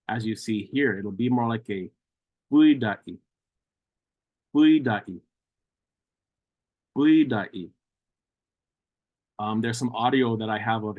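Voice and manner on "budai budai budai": budai said as u-i-dai, an E glide after the U; E sound after the U. Shown as a demonstration. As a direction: slip a little E between the U and the D of budai. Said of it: "a little bit of an E sound".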